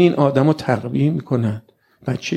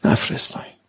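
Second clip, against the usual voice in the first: pleading verses. Acted. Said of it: "گفتن".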